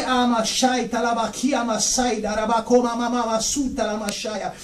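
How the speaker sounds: slow ecstatic syllables fading very soft; speaking in tongues. Real, not acted. Preacher slips into tongues mid-testimony, slow and fading. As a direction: let the tongues flow then sink away.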